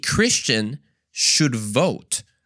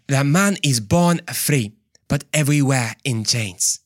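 mock African accent. Preacher replaying his botched quote, African accent. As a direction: put on a broad African accent, word by word. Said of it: "That was more like African".

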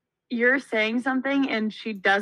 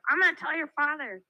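higher mock-threatening mom voice; imitating underbite mom; 4 semitones higher than usual. Daughter imitating mom at the pool, higher mock threat. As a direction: threaten as mom holding back a laugh. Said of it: "her underbite would show".

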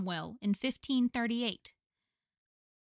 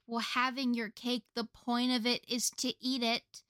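mildly sassy objection; 2 semitones higher than usual. Retold or imitated. Own sass brain questioning the saying, mildly sassy. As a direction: quote your own sass, slowing toward the end. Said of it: "sass brain not getting the point".

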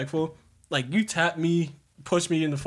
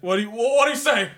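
high, louder disbelieving repeat; incredulous echo; 7 semitones higher, 4 dB louder than usual. Retold or imitated. Friend repeating the kid's question, incredulous. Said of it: "He said".

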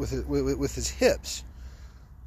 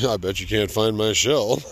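cheeky bird voice; 3 semitones lower, 3 dB louder than usual. Acted. Voicing the bird's taunt.

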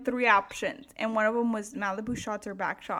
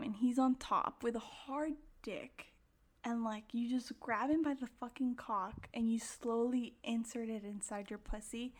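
sultry scene-painting; 8 dB quieter than usual. Acted. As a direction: paint a sexy picture softly. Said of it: "let me just paint the picture".

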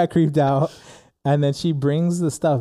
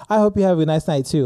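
higher, pointedly polite retold comeback; passive-aggressive; 4 semitones higher, 3 dB louder, faster than usual. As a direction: throw the pleasantry back with an edge. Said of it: "we both passive aggressively basically said that".

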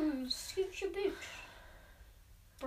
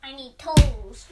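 loud; 2 semitones lower, 14 dB louder, slower than usual. Pretend. Kids joking while building Lego.

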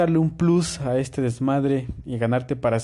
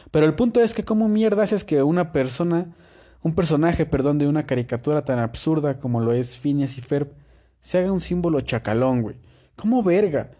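higher-pitched, incredulous comic rant; exasperated disbelief; 3 semitones higher than usual. Acted. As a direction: demand an explanation, voice pitched up in bafflement. Despotrica incrédulo sobre Perry como símbolo. (incredulidad exasperada)

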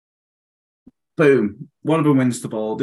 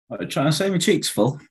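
talking through a mouthful of food; mouth full. Real, not acted. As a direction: say it round a bite of food. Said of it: "Never speak with your mouth full".

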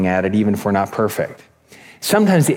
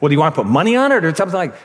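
rapid-fire, higher mock-angry clerk; retold yelling; 4 semitones higher, much faster than usual. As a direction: imitate an impatient clerk's rushed outburst. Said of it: "starts yelling at me".

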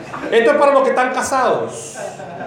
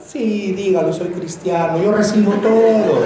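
mock meekness; slower than usual. Mocking a doormat Christian.

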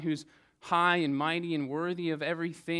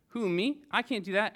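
higher, louder mock disbelief; startled Moses; 6 semitones higher, 3 dB louder than usual. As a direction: play the reluctant Moses, a little alarmed. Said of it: "typical human response".

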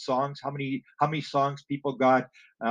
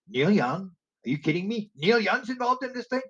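sharply higher, stunned disbelief; incredulous; 7 semitones higher than usual. Retold or imitated. Teller retelling his shock at Neil Young news, incredulous. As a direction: ask it like you can't believe your ears.

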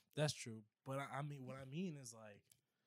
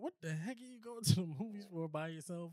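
1 girlfriend imitation; 7 semitones higher, 4 dB louder than usual. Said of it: "She gonna be like".

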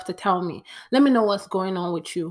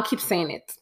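whisper; 4 dB quieter than usual. Real, not acted. Stubborn aside about her saying.

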